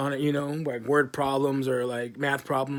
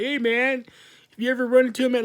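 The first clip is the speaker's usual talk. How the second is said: mock warning; 9 semitones higher than usual. Imagined friend warning him.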